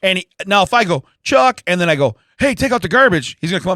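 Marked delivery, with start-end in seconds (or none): 1.2-1.6 high, loud summoning call; sharp raised-pitch call. Shown as a demonstration. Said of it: "I can say it like that". 2.4-3.4 raised voice to someone elsewhere; calling through the house. Shown as a demonstration. Demonstrating calling to his son.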